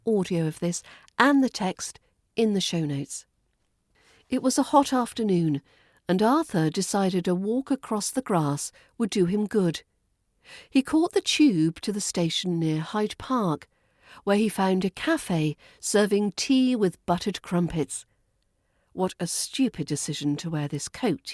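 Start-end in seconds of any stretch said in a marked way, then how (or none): 4.3-18.0 measured RP reading of a short story; story narration. Shown as a demonstration. Teacher reads the model passage aloud, measured. 18.9-21.3 sighed. Acted. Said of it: "he sighed".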